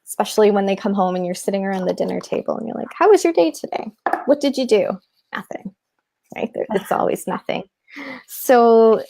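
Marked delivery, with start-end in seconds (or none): 2.9-5.0 bright, high, chirpy parent asking about the day; cheery parent question. Pretend. Parent at the dinner table asking the kids about their day, high and chirpy. 5.3-5.7 put-on mumbled, much softer one-word kid reply; sullen kid answer. Kid at dinner answering the parent, mumbled and soft.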